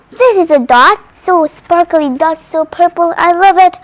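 loud, thrilled show-and-tell; excited. Real, not acted. Child shows viewers her sparkly purple dot, loud and thrilled.

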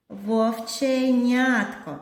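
зайченятко stretched slowly, syllable by syllable; drawn-out long word. Shown as a demonstration. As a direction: spell out зайченятко in slow separate beats. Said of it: "графічно зобразимо короткі та довгі слова".

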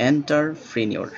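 এন্টারপ্রেনিউর spoken slowly, each syllable split; teacher slowing down to model the word. Shown as a demonstration. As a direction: spell it out by sound, unhurried. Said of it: "syllable বন্টন করে নেবেন".

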